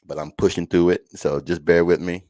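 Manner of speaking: talking through a sore mouth. Real, not acted. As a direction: speak carefully around mouth pain. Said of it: "my mouth is killing me".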